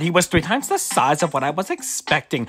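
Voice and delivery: put-on gossipy girl voice.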